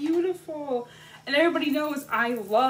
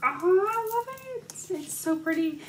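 delighted; 7 semitones higher than usual. Real, not acted. Delight at exclusive edition.

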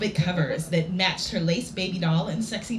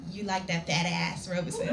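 awkward dirty talk; 7 dB quieter than usual. Acted. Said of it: "dirty talk time".

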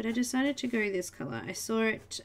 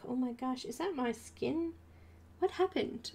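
mock shock; 2 semitones higher, 5 dB quieter than usual. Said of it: "I'm like".

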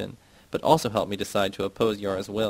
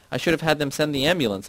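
shout; 6 semitones higher than usual. A narrator's reading. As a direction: fling it at them in anger. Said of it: "I shout".

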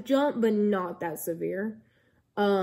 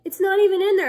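high, loud protest imitating the nurse; retold objection, pitched up and insistent; acted protest; 11 semitones higher, 9 dB louder, faster than usual. Nurse protesting to the annoyed patient, high loud acted protest.

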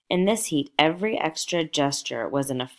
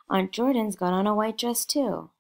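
a lightly voiced child, much higher; eager small girl, pitched up; little girl; 7 semitones higher than usual. A narrator's reading. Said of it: "the child".

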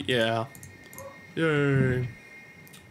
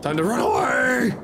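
excited cry; 9 semitones higher, 4 dB louder than usual. Real, not acted. Fleeing jellies in game.

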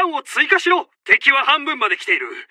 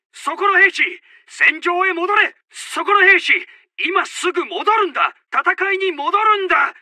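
raised, higher commanding call to a straggling soldier; calling a deserter back; 5 semitones higher than usual. Acted. Commander calling a soldier back to the battlefield, raised and higher. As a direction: snap a straying soldier back into line, pitched up.

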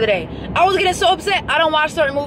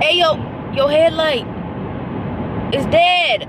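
calling out to a driver; 5 semitones higher, slower than usual. Real, not acted.

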